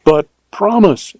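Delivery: high pleading entreaty. A narrator's reading. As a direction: plead for the promise. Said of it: "she entreated".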